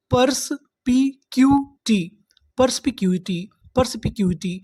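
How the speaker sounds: पर्सपिक्यूटी drawn out syllable by syllable; slow syllable-by-syllable. Shown as a demonstration. Teacher slowly sounding out the full word for students. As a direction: stretch पर्सपिक्यूटी out slowly, part by part. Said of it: "तो हमारी पूरी meaning क्या बनी?".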